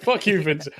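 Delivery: laughing through a mock curse; a cheeky laugh on the insult; laughing defiance. Max curses Vincent in retelling, laughing. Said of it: "it's like".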